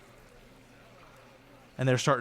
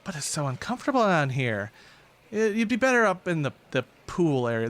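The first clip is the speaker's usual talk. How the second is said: higher, sweet persuasion; coaxing villainess; 5 semitones higher than usual. Acted. Viper coaxing the prisoner up to the bath area, lightly voiced. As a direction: tempt her out of the cell.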